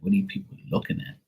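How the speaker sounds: high, fast mock outburst at starers; exasperated snap. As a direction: fire it off fast and high, fed up. Retold snapping at staring strangers.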